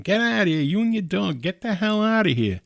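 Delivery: put-on fast-food kid shouting at a homeless man; retold yelling. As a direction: yell like a rude young worker. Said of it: "he's yelling at him".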